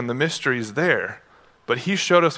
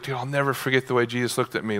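softer and fast, rueful confession; imagined Peter; 3 semitones lower, 6 dB quieter, faster than usual. Retold or imitated. Peter confiding to Luke, softer and rushed. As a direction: tell it low and quick like a haunted memory. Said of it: "Imagine Peter telling Luke".

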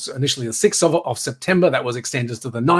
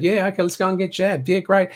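mocking dim voice; 5 semitones higher than usual. Mocking vaccinated sheep people.

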